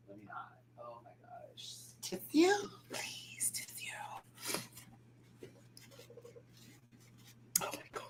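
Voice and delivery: after crying. Real, not acted. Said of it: "crying a lot today".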